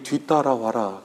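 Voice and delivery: slow, soft call to follow; gentle command. Retold or imitated. The Lord calling his followers after him, slow and soft. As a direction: draw them along slowly and gently.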